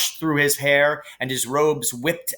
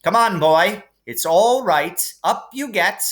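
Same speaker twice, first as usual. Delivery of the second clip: higher, louder brisk reassurance; teacher comforting boy; 7 semitones higher, 4 dB louder than usual. A narrator's reading. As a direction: coax the hurt boy up firmly. Hooch comforting Neville.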